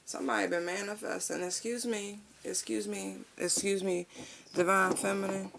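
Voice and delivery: high, sassy, teasing excuse me. Real, not acted. Reader sassing the listener about her manifesting. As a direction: tease the listener with attitude.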